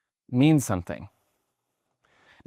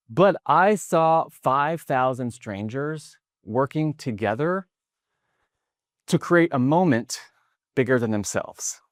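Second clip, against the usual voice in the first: winded after shouting; out of breath. Real, not acted. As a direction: speak slightly short of breath. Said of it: "I'm out of breath".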